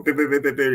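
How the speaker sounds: pim pim like a ringing phone; phone ringing imitation. Imitating the phone ringing before the call. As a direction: imitate the ring. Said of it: "this is how the phone call will go".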